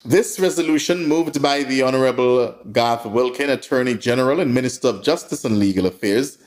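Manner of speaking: formal read-out of a statement; measured bulletin delivery; news release read. Acted. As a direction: read it like an official press release. Reading out a press release.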